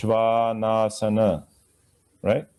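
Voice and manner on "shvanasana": "Shvanasana" slow, with long open ahs. Shown as a demonstration. Teacher modelling the word, slow long vowels. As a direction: stretch each ah of "Shvanasana". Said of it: "the rest of it is easy".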